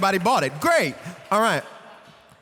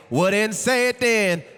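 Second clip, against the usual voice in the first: response line demo. Shown as a demonstration. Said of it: "And then y'all say".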